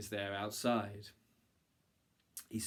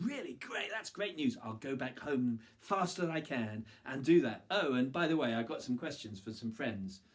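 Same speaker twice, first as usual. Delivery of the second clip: excited; 3 semitones higher than usual. Acted. Unlucky man's eager reply.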